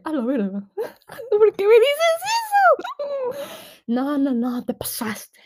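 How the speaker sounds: high, slow, tearful mock wail with a laugh; mock crying whine. Telling the tattoo friends off in a mock crying whine. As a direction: whimper it like a wounded kid. Her whiny reply to a friend.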